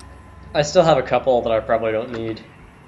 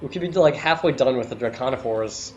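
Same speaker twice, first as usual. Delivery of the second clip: put-on northern British accent; 3 semitones higher than usual. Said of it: "Did you just try to do an Australian accent".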